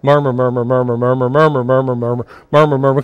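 low soft murmur. Shown as a demonstration. Preacher leads congregation in murmuring, low and soft. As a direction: murmur it under your breath, low. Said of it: "Come on, help me out".

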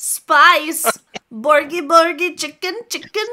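loud, high, cartoonish squawking; high, loud cartoon-chicken yelps; goofy squawk. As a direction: squawk like a silly bird. Goofy voice bit.

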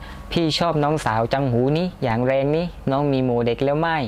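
Southern Thai words said in a Central Thai accent. Shown as a demonstration. Demo line in Central Thai accent with Southern Thai words. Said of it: "ยังติดเอาคำใต้มาพูดเป็นสำเนียงกลาง เช่น".

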